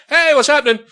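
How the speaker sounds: lightly voiced chirpy ghost caller; mock ghost hunter. Skeptic calling to ghosts, light high mock. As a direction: call out to the spirits in a high chirp. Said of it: "just be like".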